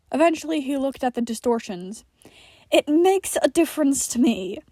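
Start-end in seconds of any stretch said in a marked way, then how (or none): 2.7-4.6 huffed. A narrator's reading. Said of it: "he huffed".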